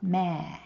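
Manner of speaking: "Me" with the eh held long; long vowel. Shown as a demonstration. Teacher demonstrating the longer sound for students, long "Me". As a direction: draw out the vowel in "Me". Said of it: "that sound lasts longer".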